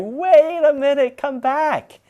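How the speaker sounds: loud, high-pitched shout after fleeing friends; re-enacted frantic calling; panicked yell. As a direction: yell out, drawn out, to call them back. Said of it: "yelling at my friends".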